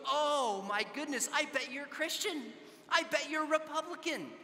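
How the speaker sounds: mock a touch of shocked indignation; retold indignation. Offended student accusing the pro-life stranger, retold with mild indignation. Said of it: "you'd have thought I pulled out a gun".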